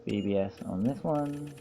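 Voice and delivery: soft sing-song, lifting at the end; softly condescending sing-song; patronizing. Acted. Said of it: "my most patronizing voice".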